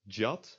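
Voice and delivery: "jat" begun with the J of jam; English J sound. Shown as a demonstration. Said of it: "is not pronounced as".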